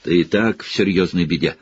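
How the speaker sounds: spiteful teacher blocking the door. Acted. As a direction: spit it at the boy, lightly. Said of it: "злобствовал Снегг".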